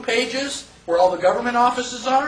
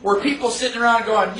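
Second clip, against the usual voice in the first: usual speaking voice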